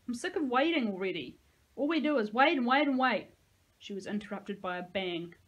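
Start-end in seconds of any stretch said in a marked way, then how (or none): 0.1-3.3 whiny complaint. A narrator's reading. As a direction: build the whine louder on each wait. Bored child complaining.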